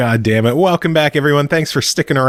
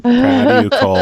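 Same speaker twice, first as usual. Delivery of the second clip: high, playful cheering; excited praise; 13 semitones higher than usual. Acted. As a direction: gush over her like a proud fan. Cheering on Cole's success.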